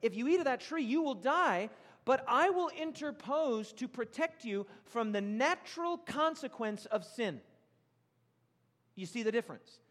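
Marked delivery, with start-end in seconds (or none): 0.0-7.4 slow, earnest voice of a protecting God; a gently voiced caring God; protective God. Shown as a demonstration. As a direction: promise to shield them from death. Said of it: "God said".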